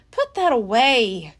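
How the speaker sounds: nervous plea; nervously. Acted. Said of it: "Jack said nervously".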